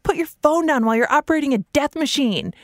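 re-enacted yell. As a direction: imitate yelling at distracted drivers. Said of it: "I yell stuff like".

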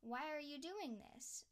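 scolding yourself in mock despair; frustrated at herself. Scolding herself over missed podcast episodes, exasperated. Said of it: "I get really frustrated at myself".

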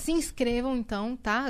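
ordinary talk, nothing marked

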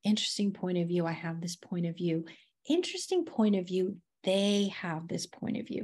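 quietly repeating the phrase, fast; soft quick repetition. Shown as a demonstration. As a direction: murmur it over and over. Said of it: "repeat it over and over again".

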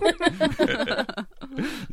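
breathless high-pitched giggle; high squealing laugh. Real, not acted. Laughing at own impression.

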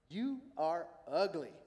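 slow, deliberate parrot insult. Acted. Parrot insulting a pet store customer, slow jeer. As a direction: draw out each word of the insult.

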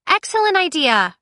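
high, loud and perky; chirpy. A narrator's reading. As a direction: chirp it brightly. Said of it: "Cress chirped".

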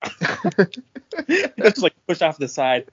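words broken by laughter; laughing. Real, not acted. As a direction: laugh through the line. Laughing through gross description.

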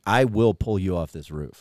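low, slow, soft threat; a beast warning you off; understated menace; menacing reindeer. Retold or imitated. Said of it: "shakes his head like".

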